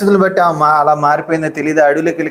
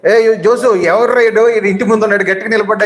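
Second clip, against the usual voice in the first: mild mock yell, higher in pitch; retold yelling; 5 semitones higher than usual. Angry woman challenges Jose outside his house, mock yelling. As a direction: imitate a woman calling out rudely, pitch raised. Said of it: "అని చెప్పేసి అరుస్తా ఉంది అన్నమాట".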